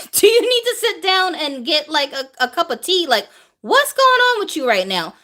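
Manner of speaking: high, worried mock concern, nearly laughing; concerned disbelief. Coworkers staring at someone who keeps announcing, high worried disbelief. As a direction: ask if she's okay, half laughing. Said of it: "You'd be looking at me like".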